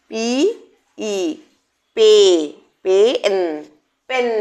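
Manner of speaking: পিই then পে then পেন, letter by letter; teacher blending sounds into পেন; sounding out. Shown as a demonstration. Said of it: "sounding out".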